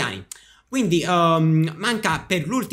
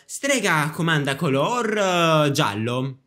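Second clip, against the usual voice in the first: game call; 2 semitones higher, slower than usual. Acted. Witch calling out game command.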